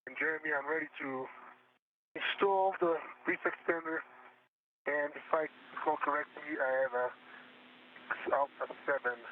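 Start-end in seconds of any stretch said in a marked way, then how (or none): 0.1-5.3 spacesuit helmet radio; muffled helmet comms; inside a helmet. Real, not acted. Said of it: "Yeah, my visor's up".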